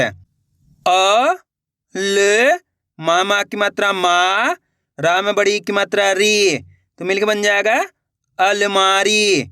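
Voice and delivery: syllable-by-syllable reading demo; letter by letter. Shown as a demonstration. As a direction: sound out each syllable slowly. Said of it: "देखो किस तरीके से".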